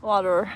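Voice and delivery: "Water" in full, ending on an R; own pronunciation. Shown as a demonstration. Streamer repeating her own way of saying it, "Water" in full. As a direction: say "Water" as two syllables with a final R. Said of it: "I say water".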